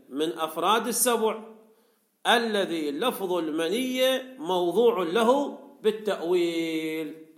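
slow, measured recitation of a classical text; formal text reading. Acted. Teacher reading the commentary to students, formal reading. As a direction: read it out slowly, phrase by phrase.

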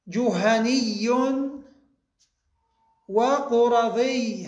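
جهني and وقرظي slowly drawn out, stressed final ī; demonstrated nisba forms. Shown as a demonstration. Teacher showing the nisba of جهينة وقريظة, slow careful demonstration. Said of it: "هكذا بحذف التاء".

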